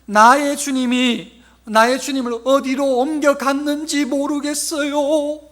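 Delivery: high, loud, drawn-out mock wailing; hammed-up lament of a weeping woman; tearful wail. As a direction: wail it out pleadingly, stretching the words. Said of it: "아마 이렇게 울면서 했을 거예요".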